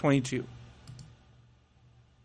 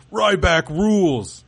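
Ryback catchphrase; 3 semitones higher, slower than usual. Retold or imitated. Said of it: "So Ryback's slogan".

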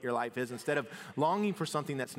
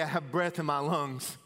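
buoyant and louder, counting blessings; a gladly raised, thankful list; grateful excitement; 5 semitones higher, 4 dB louder than usual. Pretend. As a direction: lift each line with thanks. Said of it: "Or we could say".

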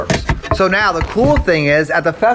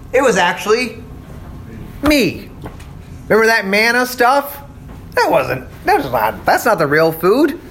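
paraphrasing Jesus; 4 semitones higher than usual. Retold or imitated. Teacher paraphrases Jesus at length.

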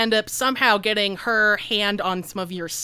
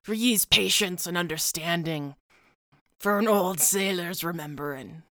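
put-on weathered old sailor telling a tale; lightly voiced old seaman, reflective; 4 dB quieter than usual. Old sailor epilogue narration.

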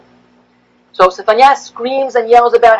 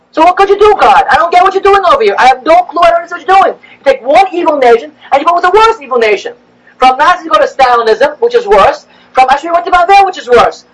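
exasperated plea to God; 6 semitones higher than usual. Retold or imitated. Complaining to God.

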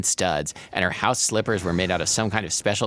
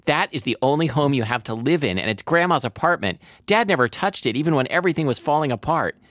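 higher, urgent protest kept from shouting; voice rising; 7 semitones higher than usual. A narrator's reading. Daughter pleading for grandma's home, voice rising. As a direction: let pitch climb while holding the volume back. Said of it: "My voice rose, even though I was trying to keep it down".

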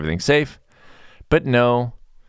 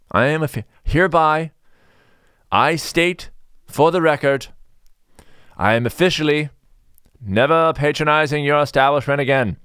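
pompous official declaration; 7 semitones higher than usual. Pretend. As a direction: read it out like a solemn oath for the record.

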